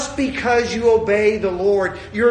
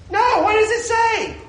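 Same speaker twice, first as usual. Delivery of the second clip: raised, high, drawn-out proclamation; emphatic correction; 8 semitones higher, 4 dB louder than usual. Real, not acted. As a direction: proclaim it high and slow to the room. Correcting the whispered praise, emphatic.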